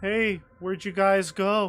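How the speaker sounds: high, drawn-out call projected into the distance. Voicing a young boy looking for the others: calling out. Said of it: "he calls out".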